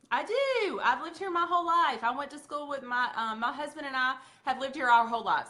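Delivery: a hint of a cheerful local customer. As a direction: play the friendly client answering small talk. Customer answering chit-chat questions.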